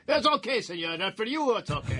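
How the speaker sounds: put-on Italian waiter accent. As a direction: play an accommodating Italian waiter. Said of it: "his Italian accent".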